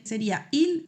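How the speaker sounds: il, ending on the L; il sin pronunciar la S; il, no S sound. Shown as a demonstration. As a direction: say il with the S silent. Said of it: "termino la palabra en la L".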